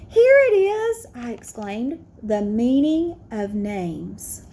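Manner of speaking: clear, gently expressive read-aloud; picture book storytime; reading to children. A narrator's reading. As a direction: read it warmly to a class of kids. Teacher reads picture book aloud.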